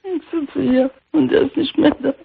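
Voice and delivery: real tears breaking into the words; a voice breaking from fresh grief; crying. Real, not acted. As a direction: widow crying over her husband's sudden death. Widow tells of husband's death.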